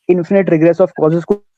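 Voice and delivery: slow, choppy phone audio cutting out; over the phone. Real, not acted. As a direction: voice breaking up on a bad line. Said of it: "आवाज, आवाज cut गई भाई।".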